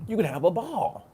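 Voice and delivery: high, loud, gleeful exclamation; gleeful high-pitched promise of a good time; excited. Real, not acted. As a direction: squeal it out with delight. Repeated much higher and louder.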